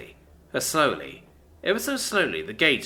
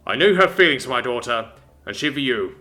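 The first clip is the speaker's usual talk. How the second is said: menacing father voice; 6 dB louder than usual. Acted. Father threat.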